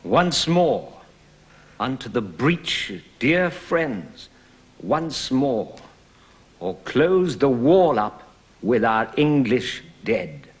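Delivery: declaimed Shakespeare, measured and ringing; verse speaking. Shown as a demonstration. Actor performing Henry's speech for the teacher, declaimed. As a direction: deliver it like a stage actor. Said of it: "Do it again".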